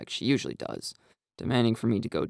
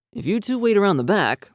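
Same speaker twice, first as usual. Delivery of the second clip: firm and a bit louder; assertive; 8 semitones higher, 6 dB louder than usual. A narrator's reading. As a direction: take charge of the plan. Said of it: "I say assertively".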